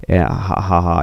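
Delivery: mild, measured evil laugh; spoken-out villain laugh, ha by ha; understated mock villain laughter; villain's laugh. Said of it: "he laughs".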